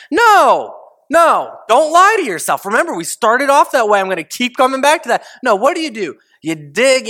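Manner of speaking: no excuses, insist on the truth; emphatic preaching. Real, not acted.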